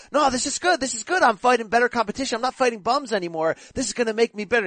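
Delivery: quick, lifted imitation of a giddy fighter; giddy and happy. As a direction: imitate someone happily brushing off a loss. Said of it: "he was all giddy and happy".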